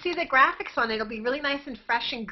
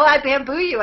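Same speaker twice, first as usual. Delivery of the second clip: mock yell; 3 semitones higher, 7 dB louder than usual. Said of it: "Just yell".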